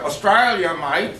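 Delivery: mock Aussie accent, drawn out; broad joking Australian accent. Shown as a demonstration. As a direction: say it slowly like an Australian. Mimics Australian "mate" accent.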